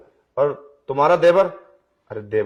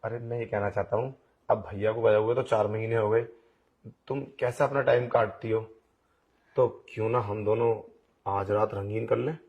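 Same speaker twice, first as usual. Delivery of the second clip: quiet coaxing; 3 semitones lower, 6 dB quieter than usual. Acted. Devar propositions bhabhi softly.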